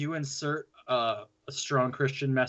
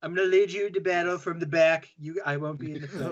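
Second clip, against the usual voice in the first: mock rallying speech; 3 semitones higher than usual. Mock Trump war speech.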